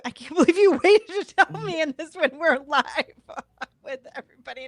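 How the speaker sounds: a real laugh breaking into the words; laughing through words. Real, not acted. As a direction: laugh it out, caught off guard. Host moved, laughing live on air.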